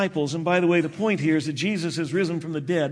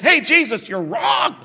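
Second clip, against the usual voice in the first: Peter bluntly calling out his teacher, raised voice; bold objection; 3 semitones higher than usual. Retold or imitated. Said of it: "takes Jesus aside and says".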